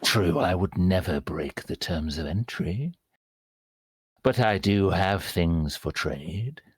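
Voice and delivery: ghoulish creature voice. Voicing a ghoul who sniffs a player: ghoul voice. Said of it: "step back, Mister Ghoul".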